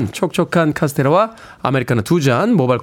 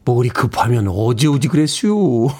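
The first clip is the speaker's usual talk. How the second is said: slow, dry Chungcheong drawl; 충청도 경찰처럼 느긋하게; Chungcheong policeman; 4 semitones lower than usual. Retold or imitated. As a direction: policeman teasing a speeder, slow dialect. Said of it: "경찰분들도 그러신다고".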